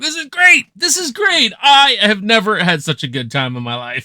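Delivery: high, loud, gleeful rocking-out voice; squealing with delight over the music; gleeful party guy. Retold or imitated. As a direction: ham up a guy having the time of his life. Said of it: "And he just keeps going like".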